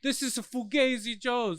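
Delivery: high, slow imitating yell; loud sharp voice. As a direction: replay the yell, drawn out. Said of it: "the way he was yelling was amazing".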